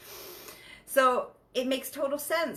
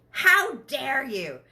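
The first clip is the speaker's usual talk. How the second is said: rising to a much higher, louder accusing cry; jealous accusation; 8 semitones higher, 6 dB louder than usual. Retold or imitated. Jealous partner accusing the other of looking, higher and louder. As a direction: catch the partner out and build to a shrill pitch. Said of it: "first reaction is jealousy".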